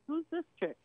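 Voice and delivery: jealous wife eyeing the girl beside her husband, mock sneer; suspicious. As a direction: size her up with a sneering question. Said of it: "and I'm like".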